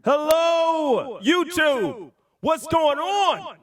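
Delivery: high, drawn-out hype-man shouts; hyped crowd greeting. Acted. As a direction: holler to a packed arena. Hyped stage greeting to the live audience.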